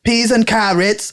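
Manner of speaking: a weak stab at British; attempted British accent. Shown as a demonstration. Friend claims he can do that one, attempted British accent. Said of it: "I was supposed to be British".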